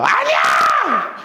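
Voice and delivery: drawn-out desperate yell, pitch soaring; Jehoshaphat's slow, frantic cry of denial; panicked shout. Acted. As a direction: scream it like a king fleeing an army. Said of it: "여호사밧이 소리를 질러요".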